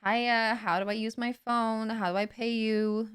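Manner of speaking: a touch of eager, lost beginner; clueless newbie. Acted. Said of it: "where I'm like".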